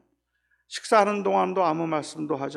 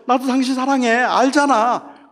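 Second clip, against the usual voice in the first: shameless claim; 4 semitones higher, 5 dB louder than usual. Retold or imitated. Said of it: "뻔뻔한 인간이 되는 거예요".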